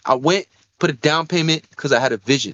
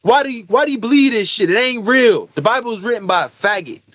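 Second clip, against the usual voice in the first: retold friend's rant; 5 semitones higher than usual. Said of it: "And he's like".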